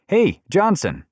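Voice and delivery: loud high hail across a crowd; calling out. Acted. Man hailing a uniformed cop by name, loud call. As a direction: shout a name over the onlookers.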